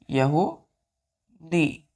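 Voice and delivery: यहूदी drawn out very slowly; teacher dictating यहूदी slowly; slow drill. Shown as a demonstration. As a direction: stretch यहूदी so they can write it. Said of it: "teacher drills meaning".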